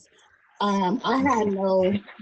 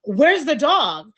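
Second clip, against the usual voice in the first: out of breath; 5 semitones higher, 5 dB louder, much slower than usual. Retold or imitated. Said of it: "And I'm out of breath".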